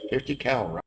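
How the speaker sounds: puzzled, softly spoken query; confused. Acted. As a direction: echo it quietly, as if baffled. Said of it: "They look a little confused".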